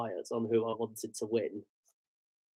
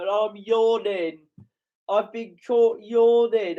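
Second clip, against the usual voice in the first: embarrassed; 7 semitones higher, 6 dB louder, slower than usual. Real, not acted. Embarrassed at being seen on TV.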